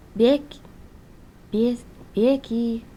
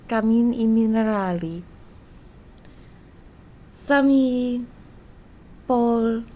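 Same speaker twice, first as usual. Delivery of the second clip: Russian accent. Shown as a demonstration. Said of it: "I can do a good Russian accent".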